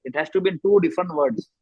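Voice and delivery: very slow, word by word; teacher repeating the rule slowly for students; slow emphatic rule. Shown as a demonstration. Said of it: "rule applicable नहीं".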